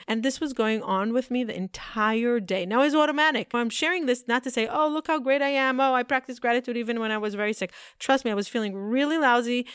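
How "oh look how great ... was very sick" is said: higher, quickened mock self-praise; lightly put-on show-off; mock boasting. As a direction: act out a humblebrag in a raised voice. Mocks a boast she disowns.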